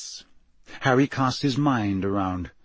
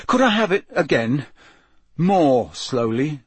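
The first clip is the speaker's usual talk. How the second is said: lightly voiced hesitant boy, starting higher; tentative request; 4 semitones higher, 4 dB louder than usual. A narrator's reading. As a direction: ask tentatively, slowing on the last words. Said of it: "he asked tentatively".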